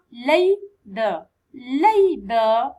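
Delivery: labor said loud, clear, teaching; loud model word. Shown as a demonstration. Teacher counting syllables for pupils, loud clear labor. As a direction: call out labor loudly for the class. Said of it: "teacher models the word for counting syllables".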